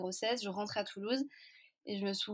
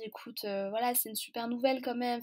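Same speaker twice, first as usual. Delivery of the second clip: reassuring; 2 semitones higher than usual. Retold or imitated. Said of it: "elle me dit plein de trucs rassurants".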